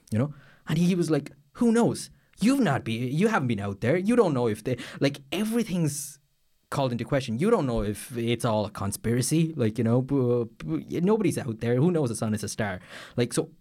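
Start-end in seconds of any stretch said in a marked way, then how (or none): 1.5-12.8 mock angry friend. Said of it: "he was just really angry about this".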